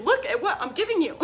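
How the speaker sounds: passionate sell. Retold or imitated. Coach pitching her offer on live stream, passionate and laughing. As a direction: gush over the deal, half laughing. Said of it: "very passionately sell that offer".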